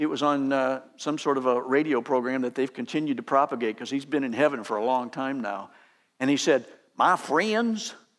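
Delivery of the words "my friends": put-on Southern accent, pitched higher. Quoting a country pastor preaching on the radio: J. Vernon McGee impression. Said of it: "he's got that wonderful Southern accent".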